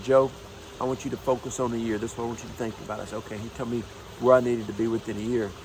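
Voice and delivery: normal talking voice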